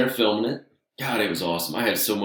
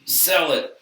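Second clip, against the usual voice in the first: retold shouted coaching, pitched up; mock coaching yell; 8 semitones higher, much slower than usual. Wrestlers yell at the rookie to sell, mock shouting. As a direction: call it out like a ringside coach. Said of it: "beating the hell out of me".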